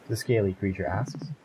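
ordinary delivery, nothing marked

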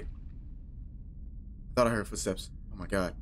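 slow, soft whisper. Real, not acted. Hearing footsteps in the dark, he whispers slowly. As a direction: breathe it out, barely heard.

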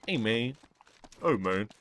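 mild hammed-up greeting; put-on voice demo. Shown as a demonstration. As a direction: show off the switchable voice. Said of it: "different black voice tones".

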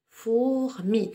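"Fourmi" in two measured beats, Four, mi; split into syllables. Shown as a demonstration. Teacher repeats for two syllables, "Fourmi" syllable by syllable. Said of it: "nous avons deux syllabes".

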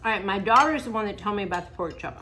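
talking while chewing; words round a bite of food; mouth full. Real, not acted. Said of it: "I'm talking with my mouth full".

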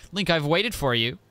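lightly voiced robot scientist; high, eager robot helper; mad scientist voice. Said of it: "that's my, like, mad scientist voice".

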